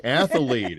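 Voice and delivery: "Athlete" said as ath-a-lete; "Athlete" in three syllables, ath-a-lete; added syllable. Retold or imitated. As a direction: slip an extra vowel into the middle of "Athlete". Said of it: "You added a syllable in the middle".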